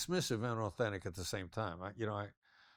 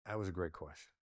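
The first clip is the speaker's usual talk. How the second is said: flat take; 3 semitones lower, 4 dB quieter than usual. Shown as a demonstration. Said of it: "I could say".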